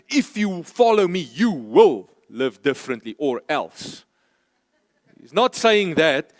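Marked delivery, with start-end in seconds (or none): 0.1-4.0 a mock threat, the voice dropping on the second half; threatening. Shown as a demonstration. Preacher shows Jesus as a threat, menacing. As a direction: say it as a warning with "or else". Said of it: "He's not threatening us and say".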